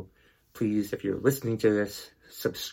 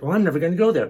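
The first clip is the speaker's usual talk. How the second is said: mocking the angry mother; 5 semitones higher, 7 dB louder, much faster than usual. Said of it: "He said".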